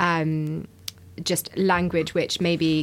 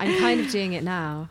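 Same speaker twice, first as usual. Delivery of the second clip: breathy voice; 2 semitones higher than usual. Shown as a demonstration. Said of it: "No, that's more breathy".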